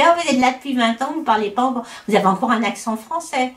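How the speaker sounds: lightly mimicked needling remark; little dig. Locals teasing a Frenchwoman about her accent, mock little dig. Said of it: "il y a des petites piques".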